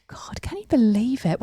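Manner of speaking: breathless, hushed amazement; gasping whisper. Real, not acted. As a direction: gasp then whisper it. Excited gasp, whispered.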